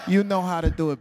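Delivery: lightly put-on New York husband; imitated New York accent. New York husband encouraging his wife, imitated New York accent. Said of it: "they really sound like that?".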